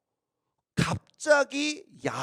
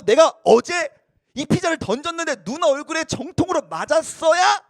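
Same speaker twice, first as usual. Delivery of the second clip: put-on bragging kid; 6 semitones higher, 6 dB louder than usual. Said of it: "이렇게 얘기하는 거예요".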